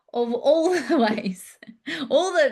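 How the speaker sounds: slow, breathy giggle through the words; amused whispered aside; laughing whisper. Real, not acted. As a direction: laugh it out under your breath. Laughing aside about listing complaints.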